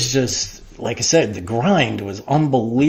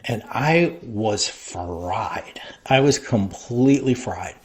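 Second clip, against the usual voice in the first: whispered; 2 semitones lower, 5 dB quieter, slower than usual. Real, not acted. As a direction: breathe it out like you're spent. Admits being burnt out.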